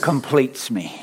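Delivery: slow, stressed completes for the room to echo; slow call to repeat. Shown as a demonstration. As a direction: lead them word by word. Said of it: "everybody say this after me".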